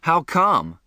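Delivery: startled, puzzled question. A narrator's reading. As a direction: ask it caught off guard. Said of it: "I was startled".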